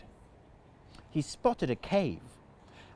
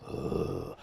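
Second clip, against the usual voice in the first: Clive breathing; 8 dB quieter than usual. Shown as a demonstration. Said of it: "his best Clive impression".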